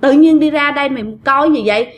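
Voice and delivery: mildly cross, quickened telling-off; lightly acted scolding in rapid bursts; retold scolding. Troupe women telling the young worker off for staring, mild scolding. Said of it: "mấy chị này mới chửi".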